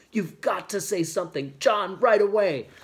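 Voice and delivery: high, loud, urgent inner plea; desperate urging. A narrator's reading. Kit silently begs John to speak, desperate. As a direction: drive each phrase harder, rising in desperation. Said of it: "silently and desperately".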